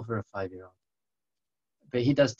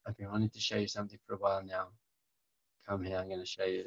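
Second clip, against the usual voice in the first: confiding father; 2 semitones lower, 9 dB quieter, faster than usual. Retold or imitated. Father confides in son, movie moment.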